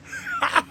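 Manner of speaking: very high, short cackle; high-pitched laugh. Real, not acted. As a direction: burst into a squealing high laugh. Laughs after own punchline.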